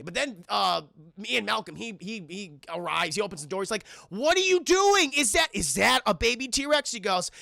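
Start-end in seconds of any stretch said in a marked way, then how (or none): 4.1-6.9 hammed-up incredulous outburst; mock shock. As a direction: act out an appalled double take. Acting out shocked man at the door.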